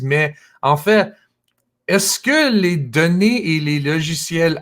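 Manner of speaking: non-native speaker's French; careful learner's accent in French; foreign accent in French. Real, not acted. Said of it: "mon français n'est pas parfait". (accent étranger en français)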